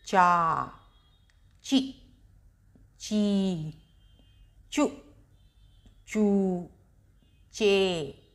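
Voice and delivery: slow syllable-by-syllable recitation; teacher reciting each syllable with a pause; barakhadi drill. Shown as a demonstration. Teacher drilling children on चा row, recited slowly. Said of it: "तो इसको हम बोलेंगे चा।".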